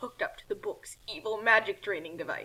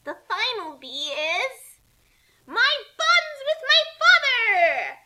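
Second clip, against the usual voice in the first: slow, loud, soaring climax; dramatic finish; 10 semitones higher, 8 dB louder, slower than usual. Acted. Kasumi revealing her father to the book, slow and grand. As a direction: land it as the big reveal. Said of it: "Kasumi dramatically finished".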